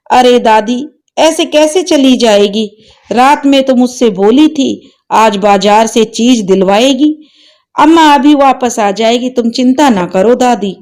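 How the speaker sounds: put-on a small boy who won't accept it; disbelieving child. Grandson insists to grandmother mother will return, light boyish voice.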